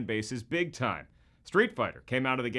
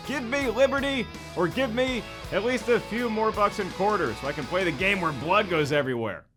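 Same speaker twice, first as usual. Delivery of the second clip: high-pitched mock-heroic orator; Patrick Henry; 6 semitones higher, 3 dB louder than usual. Mock-historical quote from a video game enthusiast demanding quarters, high impassioned declamation. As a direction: declaim it high, as a rousing speech. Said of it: "Patrick Henry who said".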